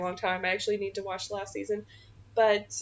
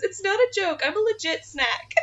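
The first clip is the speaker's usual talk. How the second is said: mock crying; 11 semitones higher, 4 dB louder than usual. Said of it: "she's legitimately crying".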